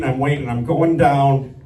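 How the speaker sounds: normal talking voice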